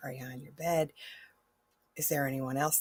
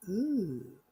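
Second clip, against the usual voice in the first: hushed, breathy gasp building to higher excitement; marveling as it suddenly becomes real; awed realization; 7 semitones higher than usual. Acted. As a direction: whisper it in wonder, then let it rise. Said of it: "you're gonna sit there until suddenly you're like".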